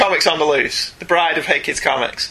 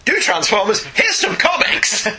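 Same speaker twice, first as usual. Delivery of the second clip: mock eager demand; 6 semitones higher, slower than usual. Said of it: "Until somebody said".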